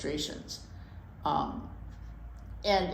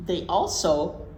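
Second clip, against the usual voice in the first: put-on reading to children. Host reading chipmunk book to listening kids, lilting story-time voice. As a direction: read it aloud like story time for little ones.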